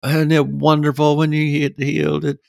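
high, breathless run of preacher promises; preaching doctrine. Retold or imitated. Speaker re-enacting his sermon to the crowd, preaching. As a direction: reel off the doctrines one after the other, pitched high. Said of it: "getting up and preaching all of the doctrine".

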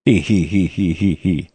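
low, soft mock snigger; a sly little he-he-he giggle; smirking snigger. Host imitating the listener's snigger, soft smirking giggle. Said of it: "that's a snigger".

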